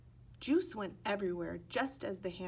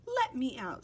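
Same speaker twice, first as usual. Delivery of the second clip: higher, louder pleading cry; begging; 5 semitones higher, 6 dB louder than usual. Acted. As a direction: beg to be let out. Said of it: "Sidney begged".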